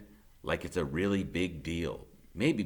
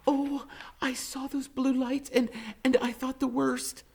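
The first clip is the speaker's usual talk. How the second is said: fretting grandma voice, pitched up; grandmother's voice. A narrator's reading. Narrator voices worried grandmother at the boy.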